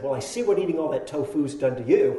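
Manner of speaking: retold jab. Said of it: "a pretty good one".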